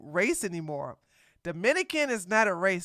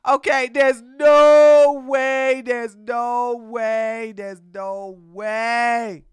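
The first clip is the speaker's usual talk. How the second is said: loud disbelief; 7 dB louder, much slower than usual. Real, not acted. Emphatic disbelief rant.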